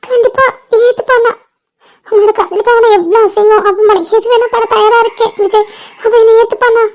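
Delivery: tearful hope; crying. Acted. Asks Vijay if he will accept her, crying. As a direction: ask it through sobs. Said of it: "அழாத".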